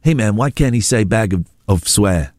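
imitated American voice; American accent. A rapper objecting on live TV, American accent. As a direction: protest in a put-on American accent. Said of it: "I'm doing an American voice".

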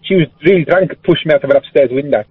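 put-on lingering South African accent. Caller stuck in the accent, South African accent. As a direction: tell it in South African vowels. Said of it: "You can stop doing the accent now".

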